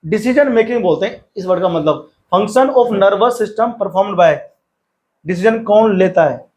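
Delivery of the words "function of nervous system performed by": very slow, word by word textbook reading; slow dictation reading. Acted. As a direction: read it out slowly so students can write. Rereads textbook line slowly.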